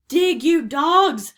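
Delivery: high, loud, very drawn-out command; crying out. A narrator's reading. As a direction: bellow slowly at the crew as pirate captain. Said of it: "cried Cap'n Bones".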